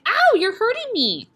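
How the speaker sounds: high, loud and pleading; pained cry. Acted. Pinched boy cries out to the headmistress. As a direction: wail it out in pain. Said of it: "Eric cried".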